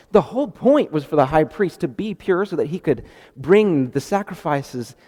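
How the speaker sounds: ordinary talk, nothing marked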